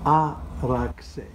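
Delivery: Araxe with the x as ks, loud; Araxe, say the ks clearly; Greek pronunciation. Shown as a demonstration. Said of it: "you pronounce it as Z, which is incorrect".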